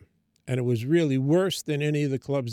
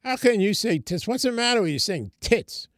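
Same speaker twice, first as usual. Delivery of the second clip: imitated outraged rant, higher and louder; angry boss; 5 semitones higher, 4 dB louder than usual. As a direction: chew him out over the joke, mock outrage. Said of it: "and he's mad".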